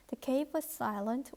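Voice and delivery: very slow, deliberate English read-aloud. Shown as a demonstration. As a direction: read each word slowly for learners. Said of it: "reads the English text slowly".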